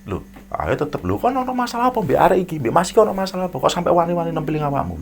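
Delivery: high, loud demanding questions; angry father. Retold or imitated. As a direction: press the question hard. Angry Madurese father presses. (bapak marah, nada tinggi dan keras)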